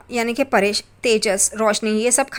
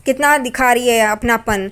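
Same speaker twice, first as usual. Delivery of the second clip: a louder, mildly heated jab; retold angry outburst; 4 dB louder than usual. Aunt lashing out at Saili over her fake concern, mildly angry. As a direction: snap back at her with mock indignation. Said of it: "काकू चढ़ जाती है साइली पे".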